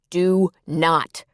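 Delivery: weight both "Do" and "not"; emphatic. A narrator's reading. Cal warns his sister, "Do not" said emphatically. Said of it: "Cal said emphatically".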